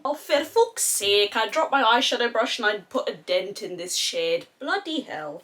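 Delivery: put-on playful northern English accent, exasperated. Grumbling to herself over a dropped brush, northern English accent. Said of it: "I bloody love the northern accent".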